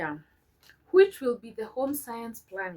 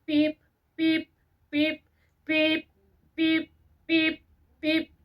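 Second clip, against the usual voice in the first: sing-song name calling; 7 semitones higher, 4 dB louder, slower than usual. Real, not acted. Calling out sibling names playfully.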